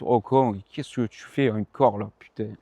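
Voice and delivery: badly faked southern French accent; mauvais accent du Sud. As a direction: put on a rough, joking Midi accent. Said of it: "excusez-moi pour l'accent, euh, très, très dégueulasse". (accent du Sud très mal imité)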